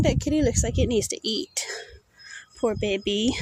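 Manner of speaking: hushed whisper so as not to scare it; soft whisper near a shy cat; whispering about a cat. Real, not acted. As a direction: breathe it quietly to yourself. Comments on the stray cat.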